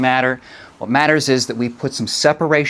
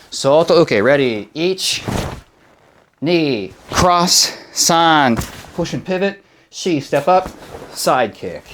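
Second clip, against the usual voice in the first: sharp martial arts commands; 3 semitones higher than usual. Shown as a demonstration. Karate teacher counting drill.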